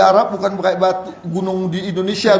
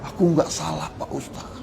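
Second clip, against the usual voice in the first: tearful plea; 6 semitones lower, 8 dB quieter than usual. Retold or imitated.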